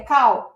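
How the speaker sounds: "call" pronounced as English "cow"; "call" ending in an open W glide. Shown as a demonstration. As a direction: say "call" with no L, rhyming with "now".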